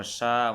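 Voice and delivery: সা said thick and heavy; heavy shin. Shown as a demonstration. Teacher shows the heavy সা for shin. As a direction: make সা heavy. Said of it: "মোটা হবে".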